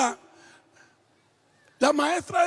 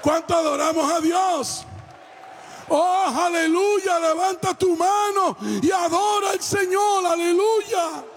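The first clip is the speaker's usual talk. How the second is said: preaching. Acted. Preacher urging people to raise hands and adore, preaching. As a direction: call the congregation to worship at full voice. Exhorts congregation to worship.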